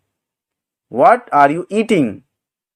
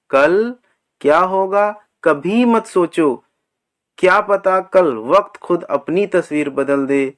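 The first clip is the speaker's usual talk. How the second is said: softer, measured poetry reading; verse recitation; 6 dB quieter, faster than usual. Acted. Teacher reciting a motivational verse to learners, softly recited.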